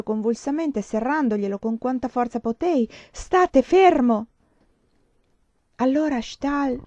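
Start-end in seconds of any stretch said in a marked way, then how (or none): 3.1-4.3 loud, slow, high order to stop; forceful command. A narrator's reading. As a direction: order him firmly to hold still. She grips his arm, ordering him.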